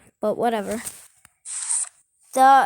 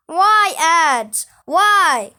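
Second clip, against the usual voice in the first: annoyed; 5 semitones higher, 8 dB louder, much slower than usual. Real, not acted. Annoyed at ad in game.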